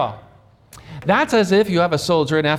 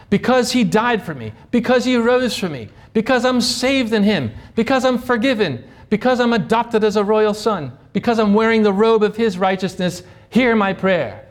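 higher, assured praying voice; confident prayer; 4 semitones higher than usual. Acted. Believer approaching God's throne in Jesus' name, confident prayer. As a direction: build a confident appeal, phrase upon phrase. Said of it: "if you wanna be confident".

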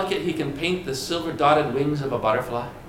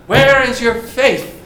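challenging; 3 semitones higher, 5 dB louder than usual. Acted. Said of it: "He challenges them".

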